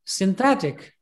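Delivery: synthetic with a strong stressed THE; synthetic, leaning on the second syllable; stress on middle syllable. Shown as a demonstration. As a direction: hit the middle of synthetic, sin-THET-ic. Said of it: "there is a stress on".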